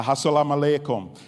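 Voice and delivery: "Assalamu alaikum" said as an Arabic greeting; Arabic pronunciation. Shown as a demonstration. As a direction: say "Assalamu alaikum" the Arab way, run together quickly. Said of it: "maybe said a little bit differently. The Arabs say".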